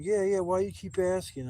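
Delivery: hammed-up annoyed mom voice; imitating stoned mom. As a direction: brush off the question as the irritated mom. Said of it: "I kept asking".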